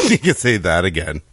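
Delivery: effortless sarcasm through a laugh; amused, dry sarcastic agreement. Acted. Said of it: "take that into a sarcastic tone".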